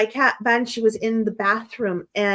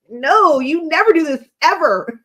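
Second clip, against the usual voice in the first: loud mock disbelief; incredulous retort; 4 semitones higher, 5 dB louder than usual. Wife retelling her reply to husband, incredulous retort. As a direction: protest loudly, as if astonished.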